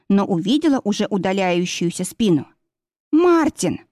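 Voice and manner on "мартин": high loud cry after him; calling out. A narrator's reading. Yana calls after departing Martin: loud cry. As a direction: call his name as he walks away.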